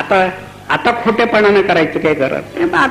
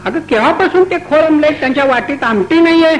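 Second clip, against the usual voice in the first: high-pitched angry telling-off of the wife; staged husband's angry rebuke; angry scolding; 6 semitones higher than usual. Acted. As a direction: scold her hotly for keeping the guest waiting. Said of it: "हा मालक चिडला".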